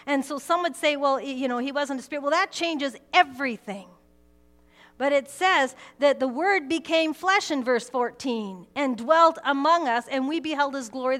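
fervent pulpit delivery; full-force preaching. Acted. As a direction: preach it hard to the congregation.

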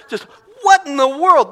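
preacher's outraged exclamation; indignant outburst. Real, not acted. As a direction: throw it out in disbelief. Preacher scolding porn viewers.

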